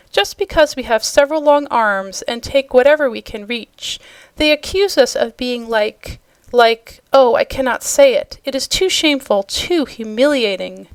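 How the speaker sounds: ordinary delivery, nothing marked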